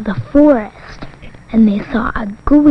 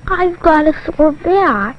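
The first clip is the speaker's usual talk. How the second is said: giraffe voice; 5 semitones higher, slower than usual. Acted. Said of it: "And the giraffe said".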